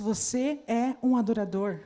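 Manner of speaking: slow, firm "você é um adorador" with weight; with conviction. Shown as a demonstration. Preacher pushing the congregation to say it with conviction, firm. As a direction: declare it with conviction. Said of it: "eu quero convicção nisso aí".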